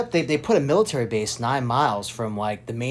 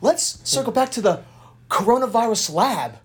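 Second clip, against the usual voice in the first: squeaky mocking impression of the host; mocking high quote; 11 semitones higher than usual. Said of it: "she was like".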